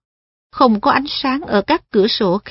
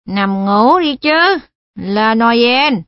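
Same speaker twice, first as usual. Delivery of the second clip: slurred voice; much slower than usual. Acted. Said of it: "Cái giọng ấy tiếp tục".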